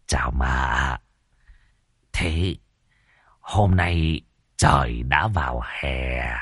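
slow, soft ingratiating flattery; a lightly voiced sly fawner; fawning. A narrator's reading. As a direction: servant flattering the lady on her outfit. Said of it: "cười cười cầu tài".

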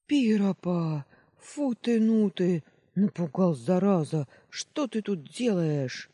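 put-on sentry recognizing the boy after a scare, loud and startled; startled relief. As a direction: gasp it out, then scold.

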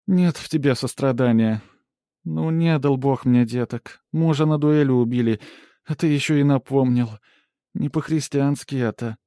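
lightly hammed-up self-pitying peasant woman; aggrieved village woman. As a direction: guilt him as the wronged widow. The speaker playing the victim.

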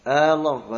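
آه، الله أكبر with a long آه at the start; drawn-out hamza on Allah. Shown as a demonstration. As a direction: stretch the opening آه of الله. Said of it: "هذا خطأ فادح". (آه، الله أكبر بمد الهمزة)

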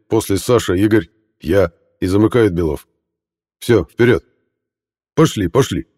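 loud officer giving orders; brief the squad firmly; commanding briefing. Acted. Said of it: "приказал Архипов".

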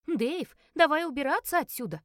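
high, urgent shout; крик. A narrator's reading. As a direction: call out loudly to get away. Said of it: "крикнул Руфин". (кричит, торопя уйти)

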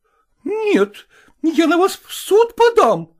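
high, loud indignant cry; exclaiming. A narrator's reading. Zoya threatening Selezenkin with court, exclaiming. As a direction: threaten him hotly. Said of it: "воскликнула Зоя Кондратьевна".

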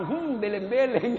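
melontarkan celetukan lalu tertawa; tertawa geli. Real, not acted. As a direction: celetukan jenaka yang pecah jadi tawa. Joking to audience, laughs. (tertawa sambil berkelakar)

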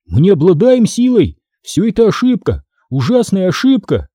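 high-pitched, pleading protest; a narrator's mild high shout; crying out. A narrator's reading. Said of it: "закричал я".

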